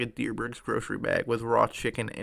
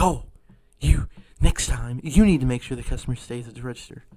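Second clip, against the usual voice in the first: mad scolding; 4 dB louder than usual. Retold or imitated. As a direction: mimic the annoyed customer telling you off. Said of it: "she gets mad at me".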